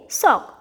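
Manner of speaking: "sock" with a short O; short vowel. Shown as a demonstration. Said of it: "let us see the short vowel sound". ("sock" में छोटा ओ)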